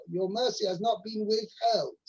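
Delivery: ordinary talk, nothing marked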